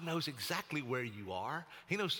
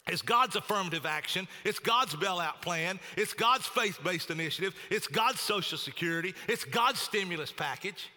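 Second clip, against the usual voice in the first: mildly raised, fuller black-preacher cadence; the speaker preaching; 2 semitones higher, 3 dB louder than usual. Retold or imitated. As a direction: lift it into a rousing pulpit rhythm, lightly done. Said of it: "a good black preacher saying it like this".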